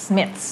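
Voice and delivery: "Smiths" with tongue-tip th, then a clear s; th followed by S. Shown as a demonstration. Teacher demonstrates for student, "Smiths" ending th plus s. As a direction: finish "Smiths" on th sliding into s. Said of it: "แล้วก็ต่อด้วย S".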